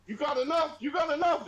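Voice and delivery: high mock grandma, asking twice; fussing grandma. Grandma hovering over fifty guests at the table, high fussing voice. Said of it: "she'd be like".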